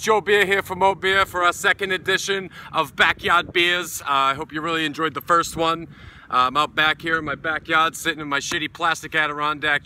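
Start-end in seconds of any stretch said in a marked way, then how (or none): 0.0-4.0 hyped intro. Real, not acted. Vlog intro greeting to viewers.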